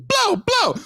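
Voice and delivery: very high, whooped Jamaican-style interjection; hammed-up Jamaican gunshot call; Jamaican dancehall call. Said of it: "I would just walk around, like".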